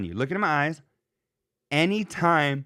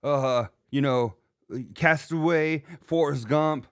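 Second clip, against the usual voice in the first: imitating Rich Davis; slower than usual. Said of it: "Uh, Rich".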